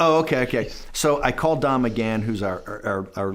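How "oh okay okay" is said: sudden higher, louder realization; the penny drops, voice jumps up; dawning realization. Retold or imitated. Reading the transcript and suddenly getting it, higher and louder.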